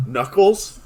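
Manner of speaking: high, loud hype; excited shout. Real, not acted. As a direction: pump up the name. Excited about Idris Elba.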